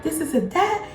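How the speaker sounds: high-pitched mock scolding; mom going off. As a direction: imitate an outraged mother rattling off charges. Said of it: "she was just going off on me".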